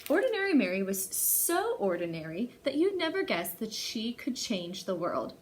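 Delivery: put-on bright read-aloud for little kids; storytime reading. A narrator's reading. Teacher reading a picture book to kids, lively storytelling. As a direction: read it like story hour to children.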